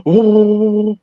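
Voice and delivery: long, held helicopter "ooh"; imitated helicopter noise. Tells of a helicopter coming down, imitating its noise. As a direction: hold out the sound of a helicopter.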